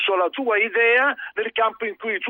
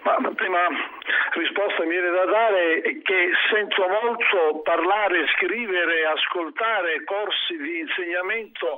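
tinny call-in line on speaker; on speakerphone. Real, not acted. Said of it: "sta in viva voce".

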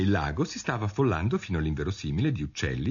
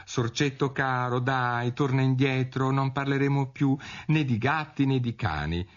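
high, coaxing sing-out; gentle pleading in a raised voice; sweet calling; 7 semitones higher than usual. A narrator's reading. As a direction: call back a little mouse tenderly. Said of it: "Allora lo chiamò con dolcezza".

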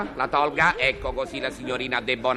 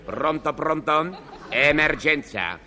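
intercom emergency call. Acted.

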